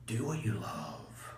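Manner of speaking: low, slow mocking quote; mock slogan. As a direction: parody the cliché slowly.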